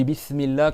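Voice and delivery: BISMILLAH with a lisped "th" for the s; S not whistled. Shown as a demonstration. Teacher demonstrates the invalid S, lisped. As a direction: soften the s of Bismillah into "th". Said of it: "tu fais pas siffler ton S".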